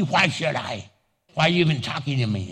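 a hint of a sulky grump, fast; grumpy reply. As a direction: snap back like a sour person. Sour person answers back.

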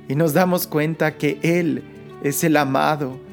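ordinary talk, nothing marked

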